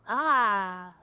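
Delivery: yawning mid-word. Real, not acted. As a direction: talk through a yawn. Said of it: "I was yawning".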